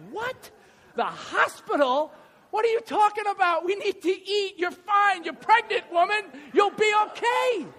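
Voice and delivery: high, loud disbelieving protest; mock outrage, high and loud; incredulous shout. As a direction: yell it in outraged disbelief at the news. Incredulous protest at hospital news.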